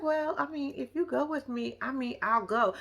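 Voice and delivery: small unsure voice; timid. Retold or imitated. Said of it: "put some more bass behind your voice".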